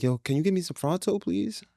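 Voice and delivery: a hint of a squeaky ten-year-old asking; squeaky kid voice. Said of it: "Squeaky ass voice".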